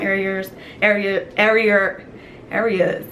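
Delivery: stumbling over "areas", restarting it; can't get "areas" out right; tongue-tied. Real, not acted. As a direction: trip on the word "areas" and retry it. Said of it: "yeah, I can't talk".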